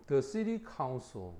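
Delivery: example sentence, read very slowly. Shown as a demonstration. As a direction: spell out each word slowly for learners. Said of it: "slow example reading". (예문을 아주 천천히)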